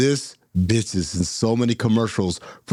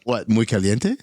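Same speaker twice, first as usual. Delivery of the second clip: Spanish accent; 3 semitones lower than usual. Shown as a demonstration. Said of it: "I didn't like the way you said that".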